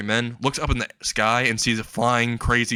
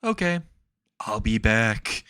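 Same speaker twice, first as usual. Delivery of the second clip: creepy; slower than usual. Acted. Captor leaving for his closet, creepily. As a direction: creepily draw out the parting words. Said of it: "she says creepily".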